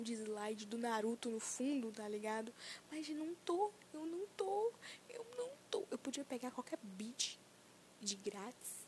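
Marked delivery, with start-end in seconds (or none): 2.9-5.9 each repeat pitched higher; rising repetition. Acted. Admitting she isn't rapping, rising higher each time. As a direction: climb higher with every repeat.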